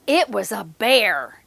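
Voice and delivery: lively storybook reading voice; reading to children. Acted. Teacher reading a picture book to children. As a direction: read it to the little ones.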